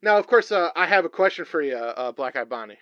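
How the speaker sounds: comic host with halting patter; comedy talk-show wrestler. Acted. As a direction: bumble through a welcome to the guest.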